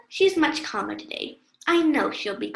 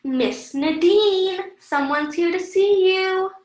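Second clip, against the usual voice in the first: raised, sing-out call to someone; 4 semitones higher, 4 dB louder than usual. Acted. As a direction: call her slowly, drawing out the name. Nurse calls out to Nadine.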